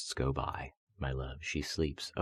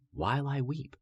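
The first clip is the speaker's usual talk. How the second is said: anguished cry; 10 semitones higher than usual. Acted. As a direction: cry the words out in grief. Repeated line, voice climbs.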